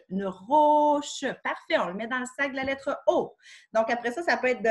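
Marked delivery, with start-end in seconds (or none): 0.1-1.2 put-on child repeating.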